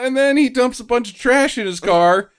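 usual speaking voice

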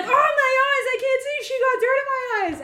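high, loud, wailing guy who can't see; whiny guy voice. Retold or imitated. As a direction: whine it like a blinded guy. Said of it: "And he's like".

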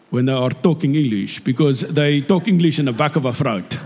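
English with a thick Afrikaans accent, back in the throat; throaty Afrikaans accent. Shown as a demonstration. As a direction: imitate an Afrikaans speaker's English. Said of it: "Why Afrikaans people sound Afrikaans".

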